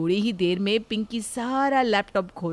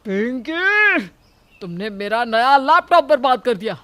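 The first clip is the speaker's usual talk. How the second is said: despairing wail; 5 dB louder than usual. Acted. Ajay wailing at Pinki over the ruined laptop. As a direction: groan her name in despair.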